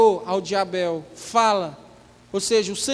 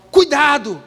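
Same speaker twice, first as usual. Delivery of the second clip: loud, sharp warning cry of "Cuidado!"; warning shout; 3 semitones higher, 6 dB louder than usual. Acted. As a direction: shout it like a danger sign. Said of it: "presta atenção, olha lá, ó". (grito de alerta)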